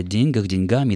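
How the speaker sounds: "деньгах", "деньгами" stressed on день; stress on the first syllable. Shown as a demonstration. Presenter reads a listener's letter, first-syllable stress in ДЕНЬгах, ДЕНЬгами. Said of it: "ударение должно падать на первый слог".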